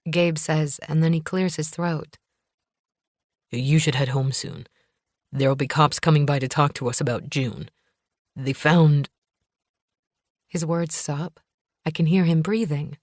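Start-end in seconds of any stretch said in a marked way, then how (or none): 3.5-9.1 lightly lowered, tense husband; a hint of a worried man, breaking off. Gabe voiced lower.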